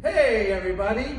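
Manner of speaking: loud, high call across the room; excited shouted game signal; yelled call. Acted. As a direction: shout so the kids freeze. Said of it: "I'm gonna yell out".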